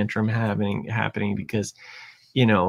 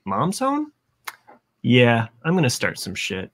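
voicing a scheming kid. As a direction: play the sly toddler plotting mischief. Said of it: "It's like".

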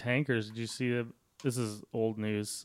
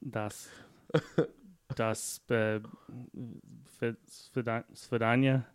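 mock Russian gibberish, slow at the end; hammed-up fake Russian accent; slower than usual. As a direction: ham up a fake Russian phrase. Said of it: "It's probably like".

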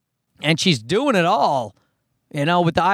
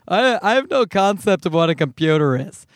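dim mock voice; 2 semitones higher than usual. Mocking the girl's ignorance.

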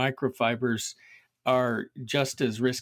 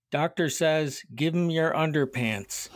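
higher-pitched joke punchline yell; half-hearted yell into a deaf man's ear; mild mock yell; 4 semitones higher than usual. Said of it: "yells in his ear".

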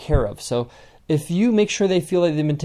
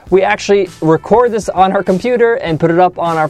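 loud promo read, pitched up; upbeat announcer; 5 semitones higher, 8 dB louder than usual. Acted. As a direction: project it like a radio giveaway plug. Announces winner, plugs reviews.

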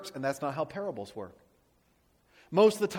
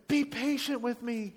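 slow, pleading servant begging his master; 6 semitones higher than usual. A narrator's reading. Servant on his knees begging the king for patience. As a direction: plead for mercy, slow and lightly voiced. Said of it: "he begged".

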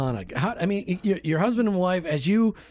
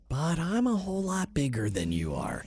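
voice of God; 5 dB quieter than usual. Acted. God answering a man who feels too small, weighty God voice.

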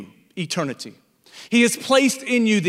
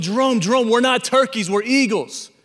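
excited calling; 4 semitones higher than usual. Acted. Eagle calls brother excitedly.

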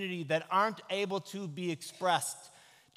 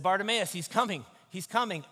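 excited call; 3 semitones higher, 6 dB louder than usual. Acted. Someone runs ahead announcing Jesus.

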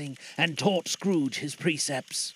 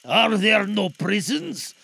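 spirit voice; 3 semitones higher, 5 dB louder, slower than usual. Acted. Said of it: "said the spirit".

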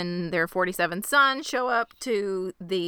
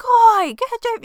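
high, loud heckle at the players; mock sideline yell, pitched way up; imitating yelling; 11 dB louder than usual. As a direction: yell it like a fan berating the refs. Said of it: "she just starts yelling like she's yelling".

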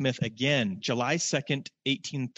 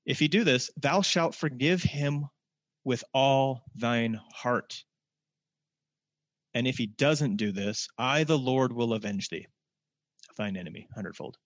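scripture reading. Acted. Preacher reading the law to the congregation, solemn and slow. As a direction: proclaim each verse deliberately. Reading resumes after aside.

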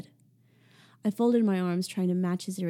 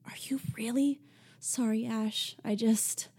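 higher, breathy near-whisper of a worried friend; Ashley, hesitant; 4 semitones higher than usual. Acted. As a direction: ask it half under your breath, unsure.

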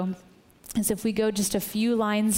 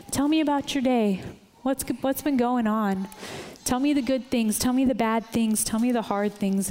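eager God; 2 semitones higher than usual. Retold or imitated. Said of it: "I can just see God, like".

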